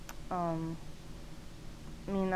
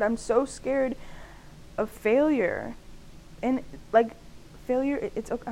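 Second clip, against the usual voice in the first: talking loud; 4 semitones higher than usual. Real, not acted. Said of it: "I'm talking so loud".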